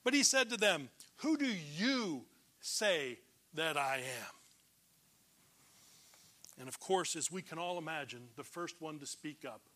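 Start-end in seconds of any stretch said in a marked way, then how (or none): 1.2-4.3 very slow, weighing each word; deliberate question. Acted. Jesus putting the question to his disciples, slow and deliberate. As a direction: draw the question right out with a long YOU.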